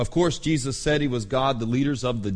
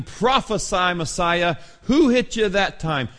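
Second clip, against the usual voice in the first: jeering taunt; 3 semitones higher than usual. Retold or imitated. Mob slapping blindfolded Jesus, acted jeering. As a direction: taunt him as the mob would. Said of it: "they jeered as they slapped him".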